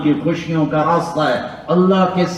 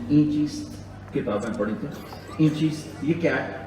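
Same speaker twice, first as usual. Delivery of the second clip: innocent; 8 dB quieter than usual. Acted. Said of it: "بڑے بھول پن میں کہتے ہیں".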